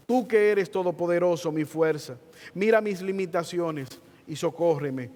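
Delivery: pleading prayer, earnest and pressing; fervent sample prayer, Señor repeated; humble model prayer. Shown as a demonstration. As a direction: cry out to the Lord as an example for the flock. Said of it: "venir delante del Señor".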